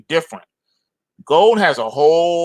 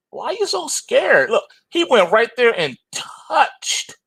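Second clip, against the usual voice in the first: mock taunting; 9 semitones higher than usual. Mocking scared silver chart.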